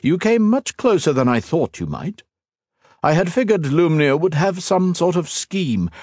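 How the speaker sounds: the villain savoring his win; gloating emperor. A narrator's reading. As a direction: emperor taunting the fallen hero, smug. Villain voiced in narration.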